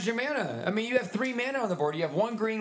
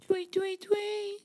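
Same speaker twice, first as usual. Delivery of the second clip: higher chirpy tweeting; parakeet chatter; 9 semitones higher, slower than usual. Acted. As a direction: chirp like a little bird. Imitating bird.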